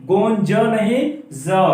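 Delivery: ordinary talk, nothing marked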